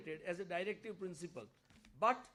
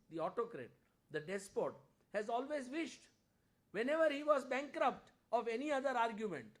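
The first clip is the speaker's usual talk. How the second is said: raised, declamatory reading of a speech; oratorical quote reading; 3 semitones higher, 4 dB louder than usual. A narrator's reading. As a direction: read it out like an impassioned parliamentary orator. Resumes reading Shah's speech.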